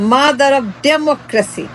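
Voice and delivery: slow, drawn-out sneer at the title; a slow, sarcastic drawl of the nickname; mocking drawl. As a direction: stretch each word out in mockery.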